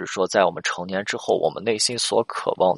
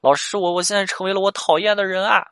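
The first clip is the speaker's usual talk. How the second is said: higher, half-sobbed plea, retold; imitating her crying; 9 semitones higher, 4 dB louder than usual. Counselor retelling the crying client's words, mock tearful. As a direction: echo the girl's tearful cry lightly. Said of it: "女，女生又开始哭了".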